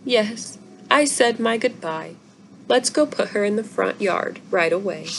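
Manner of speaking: a badly faked sad voice; half-hearted mock grief; faked sorrow. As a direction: try to sound mournful but don't quite manage. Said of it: "attempts to sound full of sorrow".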